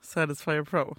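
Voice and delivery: low breathy whisper; hushed mock thanks. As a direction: whisper it like a secret.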